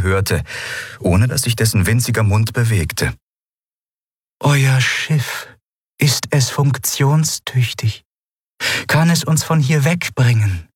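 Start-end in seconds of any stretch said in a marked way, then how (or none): 4.4-10.7 a slow, detached otherworldly voice; a lightly voiced cold alien; cool alien being. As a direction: speak down to them without feeling. The Shayang speaks telepathically, cool.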